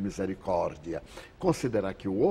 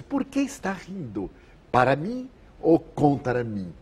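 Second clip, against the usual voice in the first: high, accusing challenge; mock indignant demand, pitched up; retold shout; 5 semitones higher, 4 dB louder than usual. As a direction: imitate a stranger confronting you across a queue. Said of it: "um senhor gritou da outra fila".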